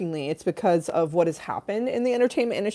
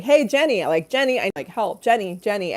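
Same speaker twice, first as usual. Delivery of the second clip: imitated call for Jenny; 3 semitones higher than usual. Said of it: "I thought that Dan was calling".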